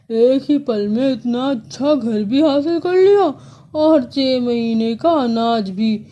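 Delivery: lightly voiced crow, gloating. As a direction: crow praising his own cleverness.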